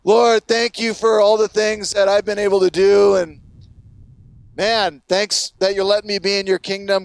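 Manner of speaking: mildly mocking pious prayer; condescending, self-righteous. Pharisee boasting to God of great things, self-righteous. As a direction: pray with a touch of self-importance. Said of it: "Condescending, self-righteous".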